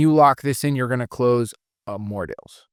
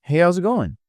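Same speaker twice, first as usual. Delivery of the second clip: higher greeting, GOING pitched up; beggar inflection; 7 semitones higher than usual. Shown as a demonstration. Trainer contrasting three greetings for reps, high beggar inflection. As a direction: lift the pitch right up on "going". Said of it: "You see those three different ones?".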